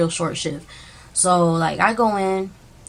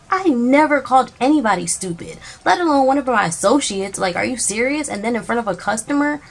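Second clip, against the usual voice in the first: indignant denial; 5 semitones higher than usual. Real, not acted. Denies the accusation, upset.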